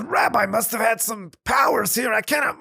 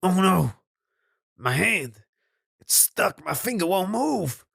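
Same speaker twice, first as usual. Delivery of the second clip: rising alarm, higher and louder by the end; panicked landowner; 8 semitones higher, 4 dB louder than usual. Acted. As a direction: discover you can't move and panic. Landowner finds himself frozen.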